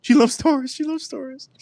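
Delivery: high, squeaky cutesy voice; squeaky mock voice. High squeaky mock voice teasing viewer about stories. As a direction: pitch it way up like a cartoon.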